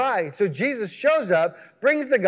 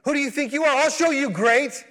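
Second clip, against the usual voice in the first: higher, hammed-up indignant challenge; mock angry Jesus; 5 semitones higher than usual. Preacher imagining Jesus wrongly scolding the disciples, mock angry. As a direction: play a put-out boss daring them to be great. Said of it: "Doesn't say that, does it?".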